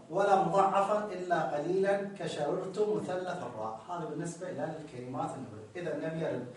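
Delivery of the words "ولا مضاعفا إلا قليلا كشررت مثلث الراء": reading the text aloud. Shown as a demonstration. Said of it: "نقرأ ونطبق".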